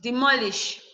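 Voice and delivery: "demolish" stressed on its middle syllable. Shown as a demonstration. Teacher telling students where stress comes from, "demolish" stressed on MO. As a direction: lean on MO in "demolish". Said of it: "Your stress should come from the M O".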